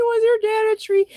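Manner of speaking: squeaky high and fast, giggling the words out; laughing through the line. Real, not acted. Repeating the friend's comeback while laughing, high and fast. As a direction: repeat it while still cracking up. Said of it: "it's so funny".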